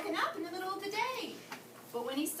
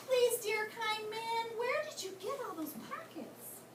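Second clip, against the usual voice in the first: slow pleading; 6 semitones higher than usual. Acted. Katie pleading slowly.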